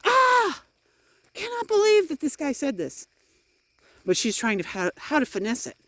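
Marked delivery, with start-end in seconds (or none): 0.1-3.1 high mock shriek of disbelief, much higher; shocked sister. Sister reacting to what the uncle said, high mock shriek. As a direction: squeal it like a scandalised sister.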